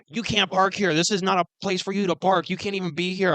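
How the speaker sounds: hammed-up crotchety complaint; crotchety old man. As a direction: imitate a crabby neighbor telling someone off. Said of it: "he was being so fucking, like, crotchety".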